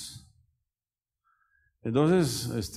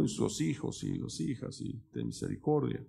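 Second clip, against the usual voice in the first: soft prayer; 5 dB quieter than usual. Shown as a demonstration. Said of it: "Y ahí digo".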